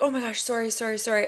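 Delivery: mock a flurry of reflexive apologies; apologetic. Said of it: "Canadians are just apologizing all the time".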